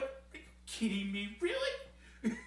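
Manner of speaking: hammed-up incredulous Joe; mock Samoa Joe disbelief. Reviewer playing Samoa Joe at a kick, laughing disbelief. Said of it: "when I was Samoa Joe".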